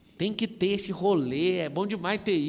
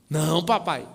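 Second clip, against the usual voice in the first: mock protest; 8 dB louder than usual. Acts out child protesting in game.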